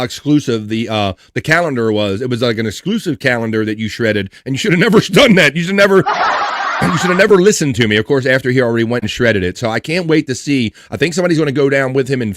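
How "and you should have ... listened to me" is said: laughing retold remark. Host laughs over a retold remark.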